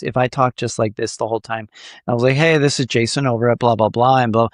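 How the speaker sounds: droning, unvaried pitch; monotone. Shown as a demonstration. Host showing listeners a boring cold call, monotone. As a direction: drone it out with no melody. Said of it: "I'm being monotone".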